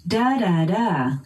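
"da, da, da" as a model tune, last "da" falling; intonation pattern demo. Shown as a demonstration. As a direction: sing out "da, da, da" in even beats, stepping down at the end. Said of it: "keeping the same intonation pattern".

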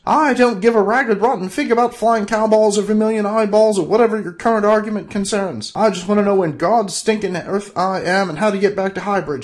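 high, loud angry tirade; furious outburst. Acted. Bob yelling at the bickering couple, loud and high. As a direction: let it all out, loud. Bob's outburst after screech.

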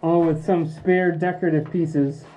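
muffled behind a dust mask; talking through a face mask. Real, not acted. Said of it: "Sorry for the muffled voice".

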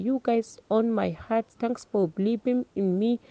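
slow, heartfelt thank-you speech, lightly voiced; a graduate thanking her family, holding back tears; emotional graduation speech.

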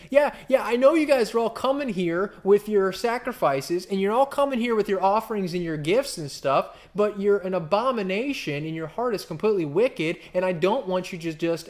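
God scolding the people with false sacrifices; voicing God's rebuke. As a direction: scold the nation, loud and high. Preacher voicing God rebuking Israel.

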